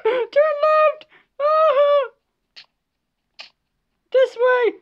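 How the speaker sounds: high, loud frantic shouts; real panic yells; panicked screaming. Real, not acted. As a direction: scream directions while running away. Fleeing with friend, screaming.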